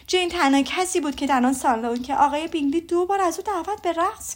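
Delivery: a mother bursting with ball gossip; telling her husband all about the ball, gushing mother; gushing Mrs Bennet. Acted. Mrs Bennet recounting the dances.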